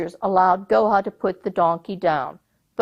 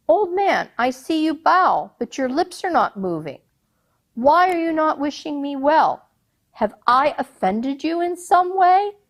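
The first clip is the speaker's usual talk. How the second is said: much higher, concerned questioning; puzzled Sultan; 7 semitones higher than usual. Acted. The Sultan asking the silent old man why. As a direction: ask with worried surprise.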